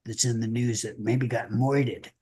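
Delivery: hammed-up radio headline voice; announcer tease. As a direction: tease the stories like a showy newsreader. Co-host announces upcoming topics.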